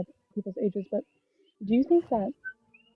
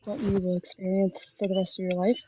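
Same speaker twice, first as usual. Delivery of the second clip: mouth full. Real, not acted. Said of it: "You're a little muffled".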